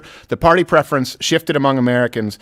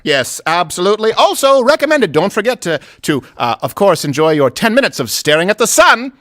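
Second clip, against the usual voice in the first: chipper 1950s ad; 3 semitones higher than usual. Acted. Mock old-time ad.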